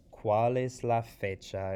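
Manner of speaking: loud, slow quiz question; asking the question. Shown as a demonstration. Teacher modelling the date question, loud and slow. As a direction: ask it out loud and slowly. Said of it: "If I ask you".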